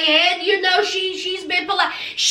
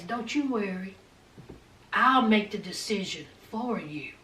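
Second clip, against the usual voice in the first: calm mock assurance; 9 semitones lower, 9 dB quieter than usual. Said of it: "when B says".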